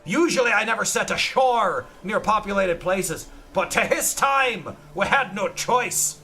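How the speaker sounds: hammy pirate captain, extra h sounds. Acted. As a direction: read like a boastful pirate. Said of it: "H's are just pronounced that way".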